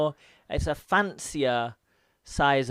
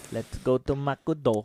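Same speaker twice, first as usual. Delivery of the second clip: McDo stretched into makudo, slower, mock Visayan; hammed-up Visayan accent, McDo as makudo; imitating Visayan accent; slower than usual. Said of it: "That sounds like you're Indian".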